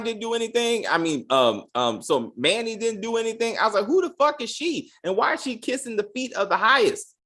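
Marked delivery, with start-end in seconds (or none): 3.8-7.1 high-pitched baffled outburst; mock stunned reaction; shocked disbelief. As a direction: sound totally thrown by what you see. Reacting to woman kissing feet.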